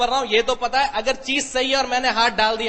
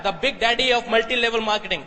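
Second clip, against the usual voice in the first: slow quoted headline; much slower than usual. Shown as a demonstration. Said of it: "exactly एक word बोल रहा हूं".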